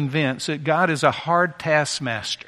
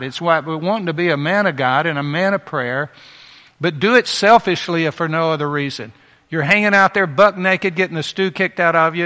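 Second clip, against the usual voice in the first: forceful preaching; 5 dB louder than usual. Real, not acted. Preacher exhorts at full force.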